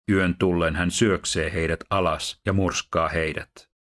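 measured, solemn Bible reading; steady, dignified reading voice; scripture reading. Acted. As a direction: read the passage aloud to a congregation.

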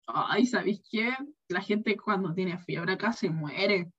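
slow, soft mock guide voice; a hint of a doomsday tour guide; imitating the guide. Guía turístico imitado. (imitando al guía, lento y suave)

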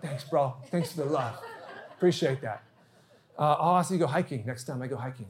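half-joking, understated sarcasm; wry mock gratitude. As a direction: toss off a wry thanks under the laughter. Wry mock reply to a brush-off.

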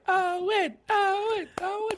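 very high calling Owen, Owen; high nagging call; high whiny calling. Retold or imitated. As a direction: whine his name like a crowd of Lucys. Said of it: "they were like".

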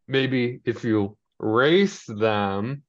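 very slow, heavily spelled-out delivery; slow meaningful hint. Retold or imitated. FP on prison phone hinting to the boys, very slow and pointed. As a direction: drag each word out like an obvious hint.

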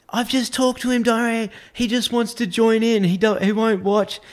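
a hint of a cooing, persuading woman; high persuasive woman. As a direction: coax him back with false reassurance. Woman's reassuring offer.

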